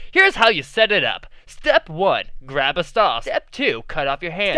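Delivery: hyped TV ad announcer; toy commercial. Acted. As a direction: sell it like a cheesy infomercial. Mock product ad.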